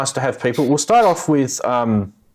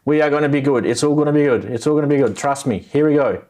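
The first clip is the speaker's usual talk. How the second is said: smooth, reassuring sales pitch voice; used car salesman. Pretend. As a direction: sell it like a slick car dealer. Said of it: "sound like a used car salesman".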